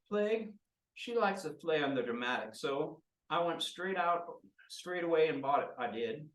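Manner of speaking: eager to please his mistress; a hint of a nervous, fawning lackey; eager henchman. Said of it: "And he goes".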